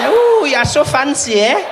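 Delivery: high, loud, impressed squeal of a woman; swooning woman. Retold or imitated. Woman answering the escalator pickup, loud and swooning. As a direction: gush like she's truly dazzled.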